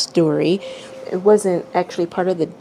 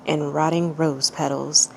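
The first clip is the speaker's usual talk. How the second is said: calm, even storytelling read; measured narrator voice reading a tale; story narration; 3 dB quieter than usual. A narrator's reading. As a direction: read it like a bedtime story to listeners. Reads a fanfic story aloud.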